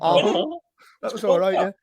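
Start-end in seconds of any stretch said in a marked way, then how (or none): 0.0-0.6 short mock horn honk; jokey vocal honk; imitated clown horn. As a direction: copy a honking clown horn. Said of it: "like a clown's horn".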